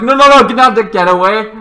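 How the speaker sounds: mock frantic get-out shout; panicked shouting. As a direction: yell to drive them away. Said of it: "he's like".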